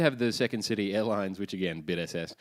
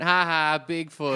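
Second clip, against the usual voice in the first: schoolyard taunt; 4 semitones higher, 4 dB louder, slower than usual. Acted. Voicing primary school name-calling.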